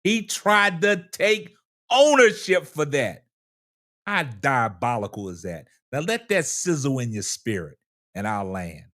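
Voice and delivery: country Wayne voice. Acted. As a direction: let each phrase sizzle, spaced out with long pauses. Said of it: "in my country Wayne voice".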